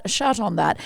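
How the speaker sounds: British "shot" for shit; lightly put-on British accent. Shown as a demonstration. Podcaster showing friend a British word, British accent. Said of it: "and how they say".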